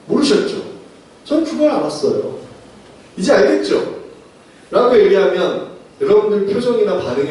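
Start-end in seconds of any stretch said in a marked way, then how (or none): 0.1-3.9 put-on higher, showing-off child voice; a light touch of a bragging little kid; smug know-it-all child. Kindergartener boasting to grown-ups, higher and smug. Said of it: "이런 거예요".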